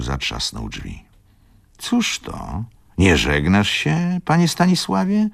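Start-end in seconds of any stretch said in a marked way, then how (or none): 1.8-5.3 much higher, rising surprised question. A narrator's reading. Tomasz surprised that Wokulski won't say goodbye, high astonished question. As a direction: ask it as a startled old gentleman. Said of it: "zapytał zdziwiony pan Tomasz".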